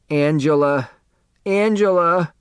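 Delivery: a mildly moaned, rising call of her name; injured woman pleading for her friend; moaning. Acted. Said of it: "Sedell moaned".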